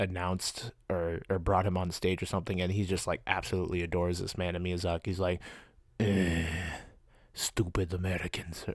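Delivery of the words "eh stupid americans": put-on accent drifting into Russian. Retelling how Miyazaki reacts to an admiring fan, in a Miyazaki impression. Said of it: "Or that was like a Russian accent".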